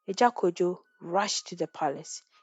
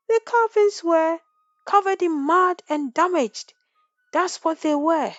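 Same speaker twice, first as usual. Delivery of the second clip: angry accusation; 9 semitones higher, 5 dB louder than usual. A narrator's reading. Chief accusing angrily.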